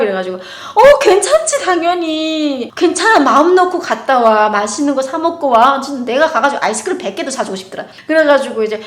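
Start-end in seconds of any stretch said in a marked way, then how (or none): 0.4-5.8 high, loud, doting reassurance; sweet reassurance. Retold or imitated. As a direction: reassure a sweet boy, beaming. Mother reassuring boy. (아이를 안심시키며 높고 다정하게)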